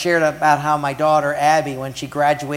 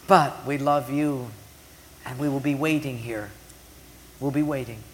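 gracious; 3 dB quieter than usual. Retold or imitated. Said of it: "Anna was so gracious".

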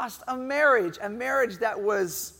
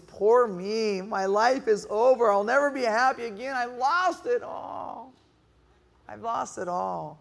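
self-pitying moan. Acted. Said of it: "Moaning is".

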